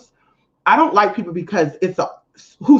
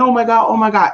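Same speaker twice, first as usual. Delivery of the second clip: higher mock-distressed gushing; put-on sympathy; 4 semitones higher, 4 dB louder, faster than usual. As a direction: exaggerate your pity for them. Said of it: "It's not to, you know".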